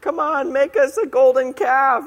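lightly voiced demanding crowd. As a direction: egg Aaron on like an impatient mob. People demanding the golden calf.

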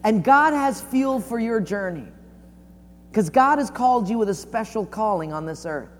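preaching. Real, not acted. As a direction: drive the exhortation home in long phrases.

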